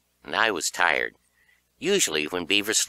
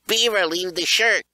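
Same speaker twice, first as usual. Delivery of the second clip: high, loud shout; 11 semitones higher, 4 dB louder than usual. A narrator's reading. Kid shouting to Beaver to ditch the shirt, high and loud. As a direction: yell to your friend mid-run. Shouting to friend while fleeing.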